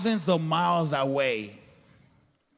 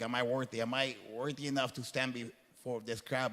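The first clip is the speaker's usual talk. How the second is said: softer, hushed questioning of yourself; quiet self-doubt; 6 semitones lower, 11 dB quieter than usual. Retold or imitated. Speaker recalling being asked to speak, hushed self-doubt. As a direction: ask it inwardly, barely aloud.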